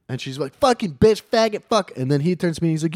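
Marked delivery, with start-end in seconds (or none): 0.6-1.9 high, loud string of curses; retold screamed cursing; mock ranting. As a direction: imitate her spewing abuse mid-rage. Imitates woman cursing during quarrel.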